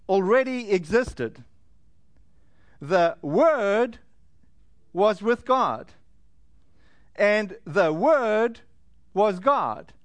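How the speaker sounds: slow, measured Bible reading with long pauses; scripture reading. A narrator's reading. Preacher reading John's opening to the congregation, slow scripture reading. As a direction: read it out slowly, phrase by phrase. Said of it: "It says".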